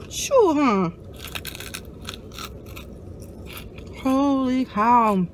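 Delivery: talking through a mouthful of hot food; huffing round hot food in the mouth; mouth full of hot food. Real, not acted. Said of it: "That crap burned my tongue".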